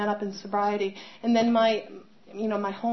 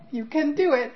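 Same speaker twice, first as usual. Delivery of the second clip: encouraging brother; 5 semitones higher, 3 dB louder than usual. Retold or imitated. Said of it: "Preston looking down at me going".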